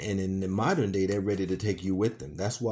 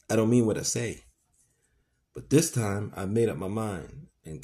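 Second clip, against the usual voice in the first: terrible menacing voice. Acted. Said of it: "said in a terrible voice".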